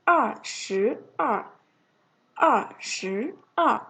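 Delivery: 二十二 drawn out slowly, each syllable clear; slow model reading. Shown as a demonstration. Teacher modeling 二十二 slowly for the class. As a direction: stretch out 二十二 for students to copy. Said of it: "Số hai mươi hai là".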